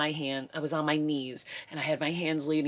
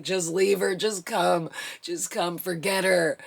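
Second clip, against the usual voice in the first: frantic yell; 5 dB louder than usual. Retold or imitated. Laboring wife yelling at husband to forget the neighbor. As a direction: bark at him to drop it and come.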